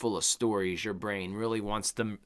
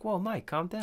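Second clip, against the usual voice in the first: higher, lightly voiced peacemaker; imitated calming; 8 semitones higher, 4 dB quieter than usual. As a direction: play someone talking a friend down. Imitating Hatch calming Mike.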